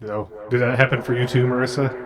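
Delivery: glitchy robotic connection voice. Real, not acted. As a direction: sounds like a garbled robot over the call. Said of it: "he just turned into robot voice".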